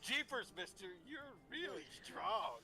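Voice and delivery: put-on wholesome 1950s kid. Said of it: "the quote out from Hercules".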